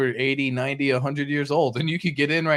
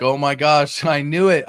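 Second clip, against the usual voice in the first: louder, a laugh of told-you-so glee; excited investor; 5 dB louder than usual. Retold or imitated. Investor watching the chart rise, laughing and louder. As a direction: crow about being right, laughing. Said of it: "You're like".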